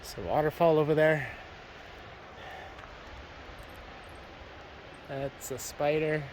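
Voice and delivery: puffing between words; winded from the climb, breathing hard; heavy breathing. Real, not acted. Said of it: "Sorry for the breathing".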